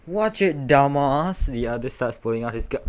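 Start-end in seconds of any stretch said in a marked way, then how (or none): 0.1-1.5 high, sharp panicked outburst; acted panic, voice jumping up. A narrator's reading. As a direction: blurt a warning in alarm. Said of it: "one panics".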